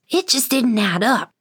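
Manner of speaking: ordinary delivery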